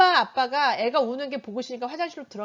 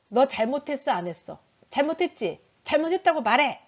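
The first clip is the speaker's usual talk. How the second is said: acted scolding, building to a louder demand; stern scolding; 3 semitones higher, 4 dB louder than usual. Parent pushing a child to admit wrong, stern scolding. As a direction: press hard like an interrogating parent.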